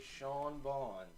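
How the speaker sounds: "Sean Bond" with Bond like James Bond; slowly "Shawn Bond". Shown as a demonstration. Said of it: "or do you say it".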